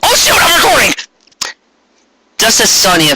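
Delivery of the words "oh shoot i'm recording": high, sudden oh shoot; startled realization. Real, not acted. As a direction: jump up as if just caught. Catches herself mid-aside.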